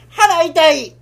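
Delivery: laughs through a mock bellyache; laughing fake pain. Father cracking up at his own fake pain. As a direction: giggle while faking a stomach ache. Father feigning stomach ache after ruse.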